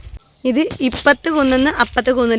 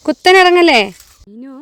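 calling out a warning; 3 semitones higher, 5 dB louder than usual. Real, not acted. Mother calling to Meenu not to go straight down, loud. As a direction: catch her attention before she slips.

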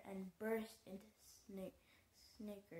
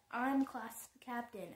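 roaring; 3 semitones higher, 7 dB louder, slower than usual. A narrator's reading. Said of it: "Hester roared".

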